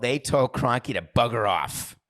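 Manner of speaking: mock English accent. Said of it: "give you an English accent".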